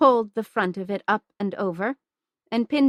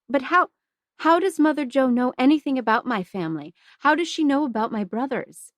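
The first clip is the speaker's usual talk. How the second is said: alarmed pleading; 6 semitones higher, 3 dB louder, faster than usual. Acted. Girl shocked about her family.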